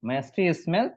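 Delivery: "Musty smell comes from mouth" read out very slowly, word by word; slow model reading. Shown as a demonstration. Teacher models the sentence for students, very slow. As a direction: spell each word out slowly for the class. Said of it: "এইটা দেখে বলতে বলবো".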